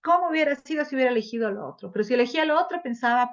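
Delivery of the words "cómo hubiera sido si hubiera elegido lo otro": fast, higher, louder fretting; a lightly acted anxious regret; mock fretting. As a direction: rush through the second-guessing. Voicing an indecisive person's regret.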